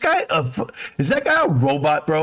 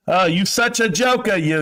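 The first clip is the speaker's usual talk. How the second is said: mock teasing voice; 4 semitones higher than usual. Mocking someone's reply.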